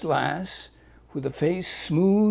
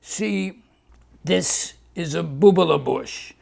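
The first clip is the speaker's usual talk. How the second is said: Doctor Leguise. Acted.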